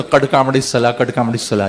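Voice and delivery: कड कामड़ी सला with hard ड sounds in place of qad qamat; mispronounced iqamah. Retold or imitated. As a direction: say कड कामड़ी सला with retroflex ड and ड़ replacing the original sounds. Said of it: "इस तरह की".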